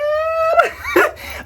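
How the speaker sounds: high shrieking laugh; excited squealing laugh. Real, not acted. Plant vlogger thrilled by the update, squealing laugh. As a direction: let out a giddy squeal of a laugh.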